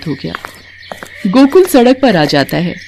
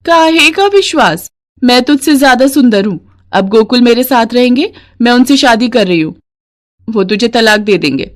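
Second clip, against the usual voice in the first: mocking, boastful other woman, pitched higher; scornful rival woman; 5 semitones higher than usual. Lata taunting Mangla, scornful and boastful. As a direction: sneer at the wronged wife.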